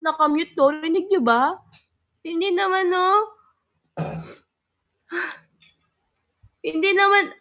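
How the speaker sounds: high, loud checking voice; worried. Real, not acted. Streamer checks with viewers whether the mic is muted, high and loud. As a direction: ask anxiously if they can hear you.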